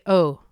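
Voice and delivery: "Oh." said fully rounded, English style. Shown as a demonstration. Teacher showing the English rounded oh. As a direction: round the mouth wide on "Oh.". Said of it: "I have to say".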